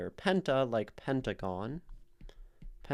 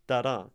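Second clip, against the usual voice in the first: "Da-da" with the second beat stronger; weak-STRONG on "Da-da"; iambic beat; 4 dB louder than usual. Shown as a demonstration. Teacher showing the shape of an iambic word, second-beat stress. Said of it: "iambic word".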